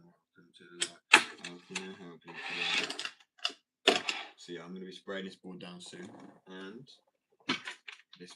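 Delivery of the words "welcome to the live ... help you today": bright customer-service greeting; chirpy shop assistant offering help; upselling cashier. Acted. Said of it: "I sound like a depressed cashier then".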